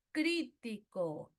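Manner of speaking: "Crítico" drawn out, stress on CRÍ; acento esdrújulo. Shown as a demonstration. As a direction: say "Crítico" slowly to show the stressed first syllable. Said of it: "esdrújula". ("Crítico" alargado, acento en CRÍ)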